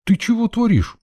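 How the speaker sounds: high, indignant outburst; dodging a stick, indignant cry. Acted. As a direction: protest as a stick flies at you. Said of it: "возмутился я".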